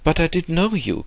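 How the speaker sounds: put-on high, eager old gentleman; old man's cry. A narrator's reading. Old man insisting to Max, a high eager cry. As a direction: protest eagerly, pitch well up. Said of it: "cried the bonhomme".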